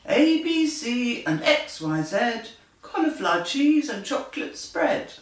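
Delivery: puffed up, chant the spell; magic spell. Acted. Genie puffs himself up, lightly voiced spell chant. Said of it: "The genie puffed himself up and said".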